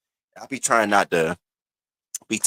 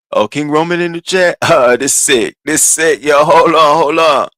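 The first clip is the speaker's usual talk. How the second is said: high, excited mock accent; hammed-up mystery accent, rising to a loud interruption; Lemon; 5 semitones higher, 5 dB louder than usual. Imitating a man thrilled at a chat arrival, odd accent. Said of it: "we don't know what accent it was".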